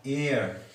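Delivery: एयर opened on the vowel, no H; silent H. Shown as a demonstration. Teacher shows a silent H, एयर starting on a vowel. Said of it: "एच silent रहेगा".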